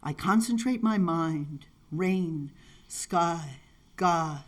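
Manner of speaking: slow recital, settling into stillness; poetry reading. Acted. Poet recites Godika's Songs of the Little Hut, spare poetry reading. Reads a poem aloud.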